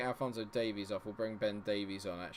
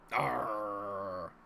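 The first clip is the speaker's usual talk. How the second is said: frustrated growl. Real, not acted. Frustrated at the save.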